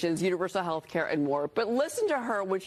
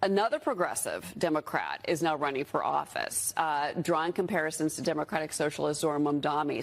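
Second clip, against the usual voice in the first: vocal fry; 4 semitones lower than usual. Real, not acted. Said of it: "leave the vocal fry".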